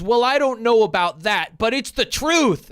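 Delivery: lightly voiced smug troll; mock troll reply. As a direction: parrot a stubborn commenter. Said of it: "He goes".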